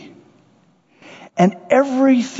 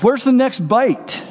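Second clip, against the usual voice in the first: greedy kiwi bird; 8 semitones higher, slower than usual. Retold or imitated. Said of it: "Sorry, I'm a bad actor".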